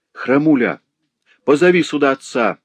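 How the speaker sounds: high, loud gasping cry for help; breathless scream. A narrator's reading. Old woman begs the boy to fetch help, screaming. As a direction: scream for the father while fighting for air. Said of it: "закричала Сычиха, задыхаясь".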